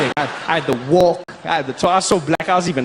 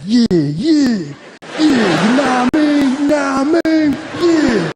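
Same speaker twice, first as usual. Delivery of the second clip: practicing black American voice; 7 semitones higher, slower than usual. Retold or imitated. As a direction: show off practised American cool. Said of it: "practicing, like".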